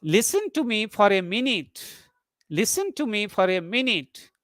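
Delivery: request tone, lift before "minute"; rising tone. Shown as a demonstration. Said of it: "there is a rising tone".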